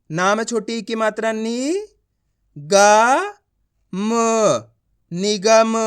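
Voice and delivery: नी, ग, म spaced well apart, then निगम in one piece; teacher's slow blending of निगम; letter-by-letter reading. Shown as a demonstration. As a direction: break निगम into sounds, then join them. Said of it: "आप इस तरीके से उच्चारण करोगे".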